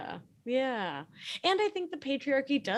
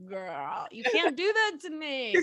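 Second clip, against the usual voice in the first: high, louder playful protest; mock protest; 10 semitones higher, 4 dB louder than usual. Telling her friend off playfully, high. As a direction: squeak it back at the friend. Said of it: "I'm just like".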